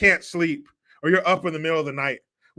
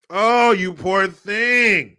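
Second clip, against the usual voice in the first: mock sympathy; 4 dB louder, much slower than usual. Mock pity for migrants.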